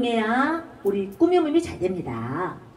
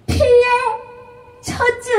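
"피에" with the 에 accented, "젖은" sung high; stress on 에; 12 semitones higher, 5 dB louder than usual. Shown as a demonstration. Teacher showing where the accent falls. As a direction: lean on the 에 of "피에". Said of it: "여기에서 강조를 해주세요".

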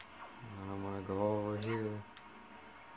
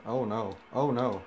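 louder, rising panic; oh no oh no, getting louder; alarmed; 2 semitones higher, 6 dB louder than usual. Real, not acted. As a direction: yelp it as things go wrong. Panic at game danger.

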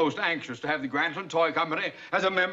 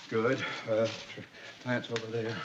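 normal talking voice

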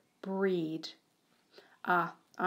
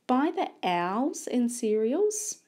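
slow, rising "owls"; puzzled repeat; 5 semitones higher, 4 dB louder, slower than usual. Shown as a demonstration. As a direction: query the odd word. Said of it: "Owls starts the same as this word".

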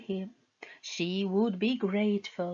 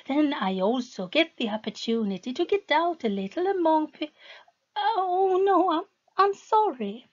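high pleading, breaking off into a frightened apology; wife realizes she angered him; eager turning to panic; 5 semitones higher than usual. Acted. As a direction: rush on, then catch yourself in fear.

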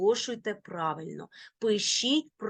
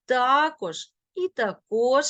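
також stressed on та, then on кож; double stress; 3 semitones higher, 4 dB louder than usual. Shown as a demonstration. Teacher showing both allowed stresses, double stress. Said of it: "можуть наголошуватися бінарно".

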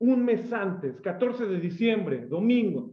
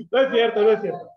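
playful take-back; 7 dB louder than usual. Real, not acted. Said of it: "solo quería hacerle ese jocoso".

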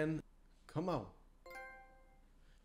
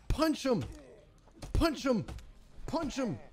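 urgent shout; 8 semitones higher than usual. Real, not acted. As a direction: yell at the screen. Urging during boss fight.

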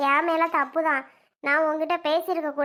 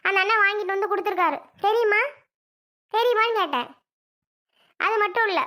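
heated, raised-pitch complaint; indignant retort; 3 semitones higher than usual. Acted. Wife throwing the neighbour's gifts at her husband, indignant. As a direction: argue back, voice pushed up.

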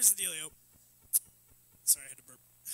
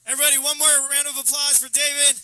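loud, raised applause call; rally the crowd to clap; high, projected host announcement; announcer call; 6 semitones higher, 9 dB louder than usual. Real, not acted. Host calls audience to applaud.

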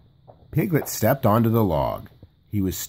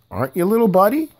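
Tigger voice; 10 semitones higher, 5 dB louder, faster than usual. A narrator's reading. Tigger teasing Piglet.

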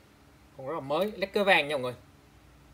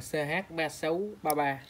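slow dictation; slower than usual. Shown as a demonstration. Seller reading the frame code to viewers, slowly. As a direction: read the code out slowly, digit by digit. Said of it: "Có mã đàng hoàng này".

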